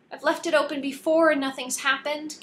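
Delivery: wailed. A narrator's reading. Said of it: "Callie wailed".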